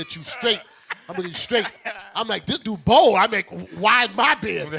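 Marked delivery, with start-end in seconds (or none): 2.5-4.7 shocked aside. Retold or imitated. Shocked at stranger's compliment.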